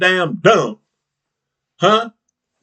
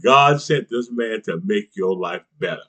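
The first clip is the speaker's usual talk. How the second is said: mock preacher; 7 semitones lower, 4 dB quieter than usual.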